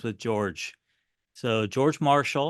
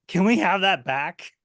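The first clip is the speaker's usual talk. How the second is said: higher, louder sheepish plea from the officers; 6 semitones higher, 6 dB louder than usual. Retold or imitated. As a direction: ask for the paper back like caught schoolboys. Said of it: "And then they go".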